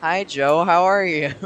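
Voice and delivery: peaking overloaded mic; loud clipped audio; clipping distorted mic. Real, not acted. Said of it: "Sorry if my audio is too loud".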